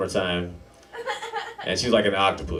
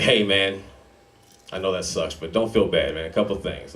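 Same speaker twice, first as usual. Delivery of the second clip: mock-sincere, lower consoling voice; consoling dad; 3 semitones lower than usual. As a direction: let the kid down gently, acted. Dad consoles disappointed son.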